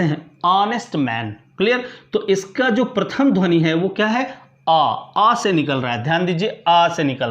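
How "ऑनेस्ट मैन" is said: "ऑनेस्ट मैन" starting straight on the vowel; silent H. Shown as a demonstration. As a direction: demonstrate "ऑनेस्ट मैन" with no h sound. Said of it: "silent होता है और पढ़ते ऐसे".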